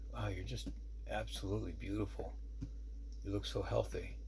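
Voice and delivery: softly awed compliment; tender admiration. Retold or imitated. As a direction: say it softly, taking in how well they look. Admires the recovered woman.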